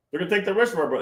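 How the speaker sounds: jokey Russian accent impression. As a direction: replay the mock Russian accent line. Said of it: "I acted like a Russian accent".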